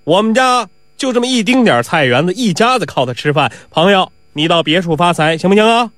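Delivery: calling out. Acted. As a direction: call over to the intruder, pleading firmly. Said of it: "对着这皮五开喊了".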